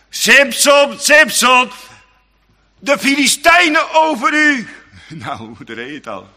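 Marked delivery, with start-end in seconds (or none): 0.1-4.7 high, loud cry of alarm; calling out warning. Acted. Delilah crying to Samson, high loud warning.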